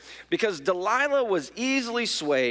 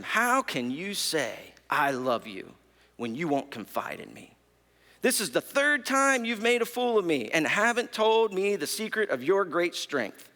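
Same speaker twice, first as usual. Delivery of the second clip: going for the heartstrings. Retold or imitated. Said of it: "now really goes for the heartstrings".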